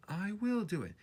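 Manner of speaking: high and determined; determined little engine. A narrator's reading. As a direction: push it out high and firm. Edward's chant.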